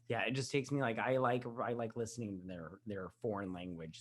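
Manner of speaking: tipsy, rambling speech. Real, not acted. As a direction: talk like you've had a few. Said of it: "I'm so drunk right now".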